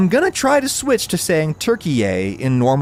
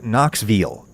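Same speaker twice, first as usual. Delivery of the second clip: "Knoxville" in a Tennessee accent, ending "vul"; local Tennessee pronunciation; 3 semitones lower than usual. Shown as a demonstration. Host imitating people born here, "Knoxville" in a local Tennessee accent. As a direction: say "Knoxville" like a Knoxville native. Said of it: "people who were born here".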